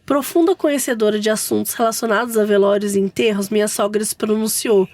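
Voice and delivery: steady, even read-aloud; story narration. A narrator's reading. Host reads mother-in-law's funeral mishap to co-hosts, story narration. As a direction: tell the tale as written, evenly.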